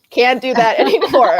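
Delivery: laughing, embarrassed; laughing mock resolve. Telling friends of her audiobook embarrassment, laughing. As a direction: laugh through the words. Embarrassed realizing others hear.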